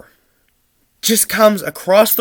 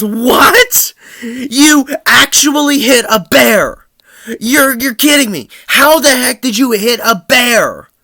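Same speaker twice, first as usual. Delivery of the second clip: mock disbelief; 7 semitones higher, 5 dB louder than usual. Mom stunned by bear news.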